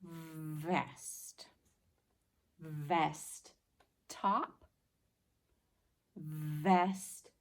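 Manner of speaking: teacher whispers the word first; whispered word. Shown as a demonstration. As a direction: breathe the word out. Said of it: "What about vest?".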